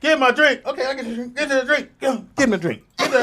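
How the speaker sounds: high, giggling chant of the hook; giggly high-pitched chant; laughing sing-song. Pretend. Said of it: "I wasn't even gonna dance to it".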